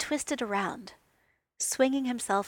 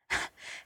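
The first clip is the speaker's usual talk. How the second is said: small breathy laugh; 4 dB quieter than usual. A narrator's reading. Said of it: "He gave a small laugh, almost under his breath".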